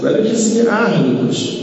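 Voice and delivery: preacher proclaiming to the congregation, pitched high; emphatic. Acted. Emphatic line then repeated whispered.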